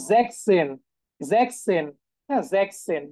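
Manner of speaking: "জ্যাকসেন" said zeks-sen, dropping the middle s of sechs; German pronunciation demo. Shown as a demonstration. Teacher repeats sixteen without the middle s, German pronunciation demo. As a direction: repeat "জ্যাকসেন" as a model, two clear syllables. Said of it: "এখানে উচ্চারণটা বিশ্রী হয়ে যাইতো বলে".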